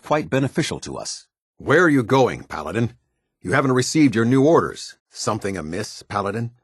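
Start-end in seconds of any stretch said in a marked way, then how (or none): 1.6-5.0 raised, higher-pitched commanding voice; stern calling-out. Acted. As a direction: challenge a subordinate who is walking off. Officer calls back a departing subordinate.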